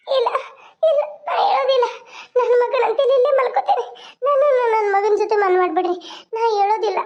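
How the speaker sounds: crying protest, voice rising in places; tearful refusal. Acted. Mother refusing to leave her dead son, tearful insistence. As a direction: refuse through sobs.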